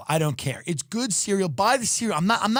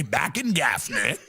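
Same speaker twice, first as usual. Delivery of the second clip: imitating father; 5 semitones lower, slower than usual. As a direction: lower voice imitating dad's saying. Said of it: "My father used to say".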